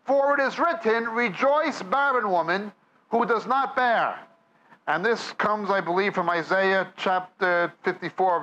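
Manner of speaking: usual speaking voice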